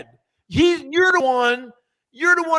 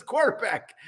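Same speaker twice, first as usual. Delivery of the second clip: said through a laugh; 4 dB quieter than usual. Retold or imitated. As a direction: laugh while saying it. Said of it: "He says".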